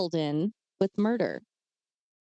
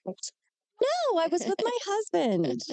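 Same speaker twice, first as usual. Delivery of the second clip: laughing; 9 semitones higher than usual. Real, not acted. Laughing denial.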